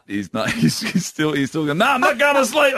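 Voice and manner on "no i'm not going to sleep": high-pitched mock toddler refusal; defiant toddler. Toddler refusing his nap to dad, mock defiance. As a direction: imitate a small boy digging in.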